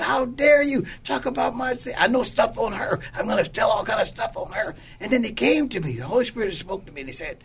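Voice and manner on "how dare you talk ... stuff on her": an indignant retort, pitch raised; upset retort. Retold or imitated. Man upset at his sister spills her secrets, indignant. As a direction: bristle at being exposed. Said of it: "I began to get upset about it".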